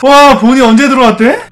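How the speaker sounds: loud, high, shocked outburst. Real, not acted. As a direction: blurt it out in disbelief. Shock after the jumpscare.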